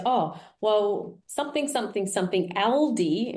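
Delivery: "Aldi" leaned on with a mock rising lilt; lightly imitating the recruiter, pressing "Aldi"; stress on Aldi. Imitating the HR lady correcting her, stressing "Aldi". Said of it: "she really emphasized the supermarket brand".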